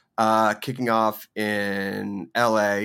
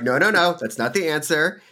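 higher, louder playful veto; mock team overruling her; 7 semitones higher, 5 dB louder than usual. Host mimics the singer's team vetoing her setlist, mock-insistent. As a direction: play a manager putting a foot down.

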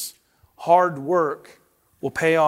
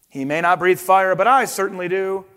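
proud boast. Acted. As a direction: show off his fire. Father boasts of fire.

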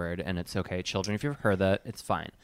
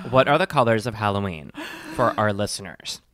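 louder, serious re-ask; serious take; 4 dB louder than usual. Shown as a demonstration. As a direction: ask it again like a real host. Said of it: "Let's try this again".

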